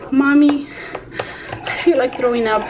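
lightly voiced sick little girl; a hint of a queasy child's plea; quoting daughter. Daughter Citlali tells mom she feels sick, lightly voiced. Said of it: "Y me dice".

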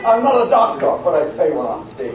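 overdone theatrical reading; dramatic actor voice. Pretend. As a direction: ham it up like a stage actor. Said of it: "Got a little dramatic thing in there".

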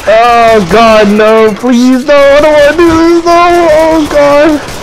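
high frightened begging; terrified horror victim. Pretend. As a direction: plead in panic, voice up high. Pleading on ghost train.

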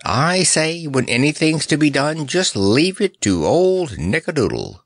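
high-pitched, cheerful boasting; pleased, lilting brag; happy chirping. Acted. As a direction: chirp it proudly, easing down at the end. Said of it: "he chirped happily".

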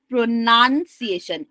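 slow "pronunciation", short NUN in the middle; correct "pronunciation". Shown as a demonstration. Teacher modelling in an example sentence, "pronunciation" with "nun". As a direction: spell out NUN inside "pronunciation". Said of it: "এন ইউ এন".

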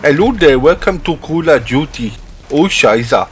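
put-on German accent that comes out Nigerian; hammy, wobbly mock-German greeting; botched German accent. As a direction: attempt a German accent and miss badly. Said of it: "that literally sounded like Nigerian".

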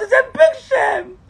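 real anguished cry; crying shout. Real, not acted. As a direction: wail it, drawn out and broken.

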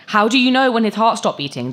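scoffing disbelief pushed up high; scornful. Acted. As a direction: sneer the question at him. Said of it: "Jane said scornfully".

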